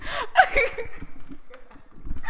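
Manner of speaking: silent, high wheezing laugh; helpless airy giggle; high breathless giggle. Real, not acted. Laughing at the memory of the possessed lady. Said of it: "that's so funny".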